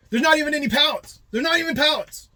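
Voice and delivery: half-hearted whiny impression of the guy; imitating the complaining worker. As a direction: lightly mimic a whiny dock worker griping. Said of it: "and he goes".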